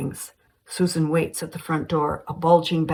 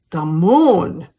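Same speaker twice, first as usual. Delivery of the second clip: surprised; 9 dB louder than usual. A narrator's reading. Susan reacts to mother's odd claim.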